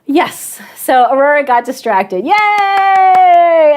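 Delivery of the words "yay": high, loud playful yay; bright mock celebration; mock cheer. Real, not acted. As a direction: cheer your own blunder ironically. Mock cheer at own mistake.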